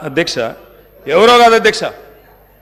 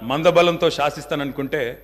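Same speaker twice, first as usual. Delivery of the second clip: calm and quiet; 7 semitones lower, 8 dB quieter than usual. Real, not acted. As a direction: answer the hecklers quietly and firmly, refusing to match their noise. Answers hecklers' shouting calmly. (గొంతు తగ్గించి నెమ్మదిగా, స్థిరంగా)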